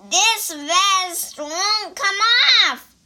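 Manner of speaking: high, slow frantic cry; cried out. Acted. Pig cries out, unable to remove vest. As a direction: wail it while struggling. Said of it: "cried the pig".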